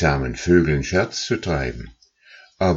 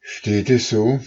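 gander, realising; 7 semitones higher than usual. Acted. Gander reacts.

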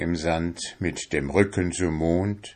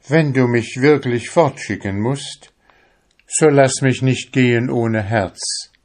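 higher, louder pleading soul voice; 6 semitones higher, 4 dB louder than usual. A narrator's reading. The soul asks the fisherman for his heart, pleading. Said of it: "Seine Seele sagte zu ihm".

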